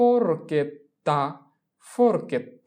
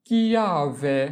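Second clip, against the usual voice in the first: slow model pronunciation; much slower than usual. Shown as a demonstration. Teacher repeats word drawn out.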